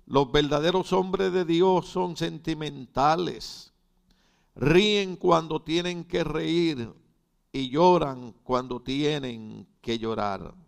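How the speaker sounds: slow, loud quotation read from the pulpit; emphatic preaching. Acted. Preacher quoting a writer on men of God, emphatic preaching. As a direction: proclaim each clause slowly and firmly.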